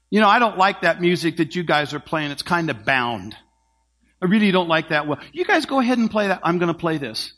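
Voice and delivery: sulky soloist refusing the orchestra; stubborn horn player. Acted.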